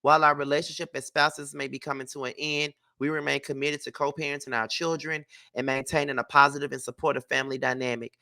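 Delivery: even, measured reading of a prepared statement; statement read-aloud. Acted. Vlogger reads a couple's divorce statement to viewers, measured reading. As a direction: read it out formally, pausing between phrases.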